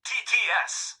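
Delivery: robot TTS voice. Real, not acted.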